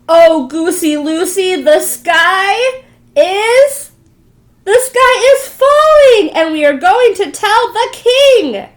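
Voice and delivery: high, loud, slow tearful wail; a frightened little hen near tears; panicked cry. Acted. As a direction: cry out the terrible news. Chicken Little panics, crying.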